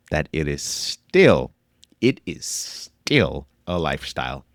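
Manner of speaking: slow, deliberate, each word weighed; slow right down and press the point; slow emphatic. Real, not acted. Slowing down to drive point home.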